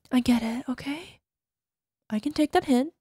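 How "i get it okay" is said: whisper. Acted. Resigned after sigh.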